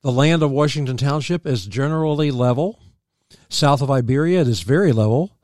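measured reading of a local history; read-aloud history. Real, not acted. Host reading township history to listeners, read-aloud history. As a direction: read it out evenly from the page.

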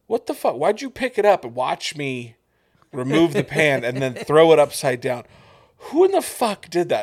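high, loud angry yell across a kitchen; furious kitchen yell, replayed for friends; retold yelling. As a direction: bark it out like an outraged cook. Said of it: "I'm, like, yelling this in the kitchen".

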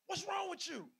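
mild mock outburst; frustrated parent. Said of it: "'cause I was frustrated by the decision".

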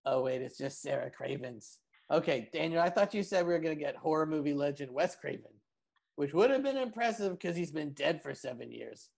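lightly voiced insult comic; a hint of a smug roaster; roast comic Raz. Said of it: "insult roast comic, Raz Clifford".

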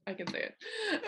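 high, slow, proud little cheer; triumphant high "I can say it". Real, not acted. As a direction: savor the win, slowly. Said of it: "Okay, I, I can say it".

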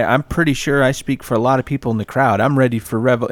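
a hint of a worked-up old lady; old lady supporter. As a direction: mimic an earnest old supporter. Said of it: "there's some old lady".

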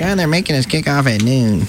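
mock whine; Nick Saban. Radio host mimicking the coach's complaint, whining. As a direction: lightly imitate a whiner complaining. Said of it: "Nick Saban was whining".

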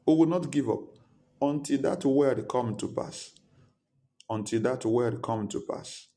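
rally the congregation; roaring rallying speech. Acted. Rallying declaration in prayer.

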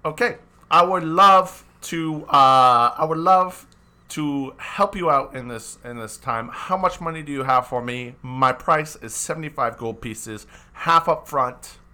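name your price like a grasping wizard; greedy wizard. Acted.

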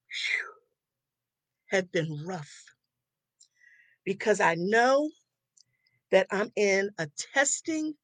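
fighting back tears, pushing through; steadying shaky voice. Real, not acted. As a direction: voice wavering with emotion, held together. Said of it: "I'm getting a little emotional".

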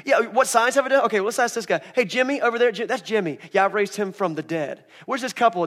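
loud, high bragging list; boastful Jesus. Retold or imitated. Jesus bragging to the crowd about miracles, loud and high. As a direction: show off every miracle to the crowd. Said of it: "going through the crowd and be like".

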